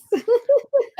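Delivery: laughing out high at her own joke; high burst of laughter. Real, not acted. Wishing future owners luck, she bursts out in a high laugh. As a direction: break into a sudden high laugh.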